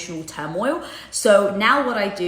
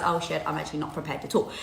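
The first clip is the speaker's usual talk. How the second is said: mock panicked thought; 6 semitones lower, 6 dB quieter, faster than usual. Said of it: "you turn up and you realize".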